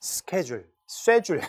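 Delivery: schedule as "skeh-jul", then 쇠줄 as "sheh-jul"; American then British. Shown as a demonstration. Teacher joking with students, schedule "sk" then 쇠줄 "sh". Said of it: "새끼줄, 쇠줄 뭐 이런 겁니다".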